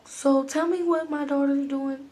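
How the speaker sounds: slow, gentle questioning; gentle mama. Retold or imitated. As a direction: imitate a gentle, patient mother. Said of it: "She's, like, so gentle".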